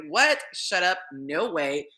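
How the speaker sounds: can't believe the good news; stunned disbelief. Retold or imitated. Reacting to a donor's DM in stunned disbelief. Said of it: "I was like".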